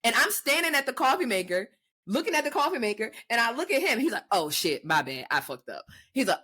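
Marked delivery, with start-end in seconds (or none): 4.3-5.8 lightly voiced contrite boyfriend; imitated sheepish apology. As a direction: lower voice, lightly mimicking a partner. Imitates partner realising his mistake.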